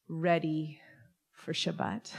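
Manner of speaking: whispered ready. Real, not acted. Rabbi telling the congregation she is ready, whispered. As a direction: breathe the word out with no voice.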